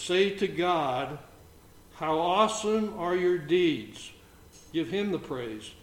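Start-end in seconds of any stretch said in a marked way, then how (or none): 0.0-4.1 slow deliberate reading. Shown as a demonstration. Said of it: "and I'm gonna read this verse".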